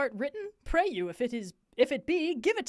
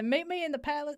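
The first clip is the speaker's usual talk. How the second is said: country accent slipping in; 4 semitones higher, faster than usual. Shown as a demonstration. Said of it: "that's country again".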